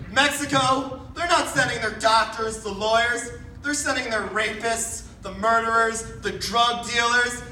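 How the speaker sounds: rally-speech rhythm, understated; lightly voiced Trump. Donald Trump giving his Mexico speech, lightly imitated. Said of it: "that Donald Trump speech where he's like".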